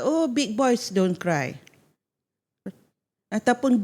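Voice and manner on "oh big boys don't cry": slow, drawn-out mock admonishment; imitated parental admonishment. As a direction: stretch it out like a parent admonishing a boy. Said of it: "Dia kata".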